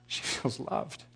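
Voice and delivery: hushed whisper, barely voiced. Tim answering God about the crying lady, whispered. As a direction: breathe it softly to the Father. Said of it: "And I'm like".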